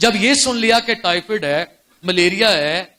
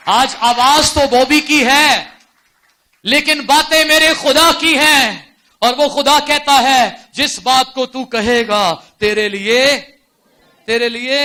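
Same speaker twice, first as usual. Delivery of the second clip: loud, slow, ringing proclamation; full-force preaching; 6 semitones higher, 8 dB louder, slower than usual. Acted. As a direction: thunder God's promise to the church. (زور دار، دھیمی رفتار سے منادی)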